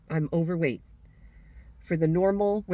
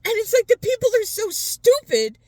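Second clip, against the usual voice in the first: raised again, louder and higher; louder repeat; 11 semitones higher, 6 dB louder than usual. Real, not acted. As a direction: hit it harder the second time. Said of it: "this is a great rant".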